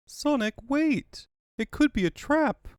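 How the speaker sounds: high, slow alarmed call; Sally crying out to Sonic, high and alarmed; urgent warning. Acted. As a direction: shout a warning to stop him. Sally warns Sonic of trap.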